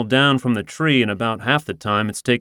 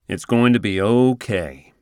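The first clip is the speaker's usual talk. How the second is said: soothing radio DJ voice. Acted. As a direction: soothe her like a late-night radio host. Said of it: "in my most soothing late-night radio D J voice".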